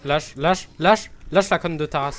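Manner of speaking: loud, angry shout at the game; angry yelling. Real, not acted. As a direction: yell it at the enemy.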